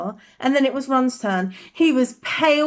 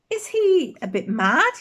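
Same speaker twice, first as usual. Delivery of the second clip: uncertain; 4 semitones higher than usual. Acted.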